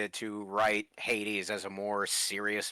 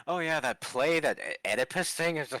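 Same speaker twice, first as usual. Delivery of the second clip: Hercules impression; 7 semitones higher, 4 dB louder than usual. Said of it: "he's just all like".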